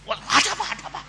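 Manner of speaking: high-pitched mock alarm; startled reaction. Husband reacts to the sudden jolt, high and startled. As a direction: play the husband caught off guard, voice jumping up.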